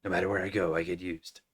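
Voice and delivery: low, quiet soldier voice. Acted. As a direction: drop into the hero's voice. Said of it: "That might be Raiden".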